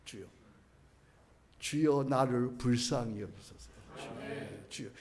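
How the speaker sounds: quiet, slow, humble plea; the whole prayer said softly and slowly; full prayer. Shown as a demonstration. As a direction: pray it gently and unhurried. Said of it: "그 기도는 반토막 기도야".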